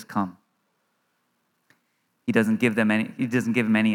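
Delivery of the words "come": very soft, low and simple; quiet command. Retold or imitated. Jesus gives Peter no instructions, just a soft low word. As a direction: let one low, hushed word stand alone.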